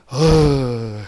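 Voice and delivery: low, gruff Chungcheong "어이"; Chungcheong grunt. Retold or imitated. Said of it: "뭔 일 터지면". (충청도 남자처럼 낮게 툭 던지는 "어이")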